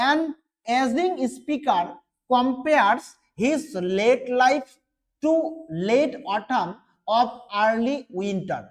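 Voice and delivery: reads each English word slowly and carefully; slow reading aloud. Shown as a demonstration. Teacher reading the summary aloud to students, slow and careful. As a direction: dictate it slowly to the class.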